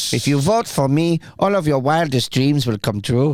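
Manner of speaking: deadpan campaign promise in a put-on voice; Pedro impression. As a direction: play the awkward school candidate making a pledge. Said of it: "channeling my inner vote for Pedro".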